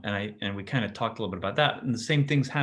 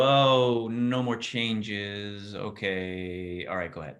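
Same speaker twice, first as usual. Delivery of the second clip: relieved inductor; 4 semitones lower, slower than usual. Acted. Inductor giving way once nothing changes, mild relieved easing. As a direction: let it settle and relax, yielding. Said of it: "the inductor would go".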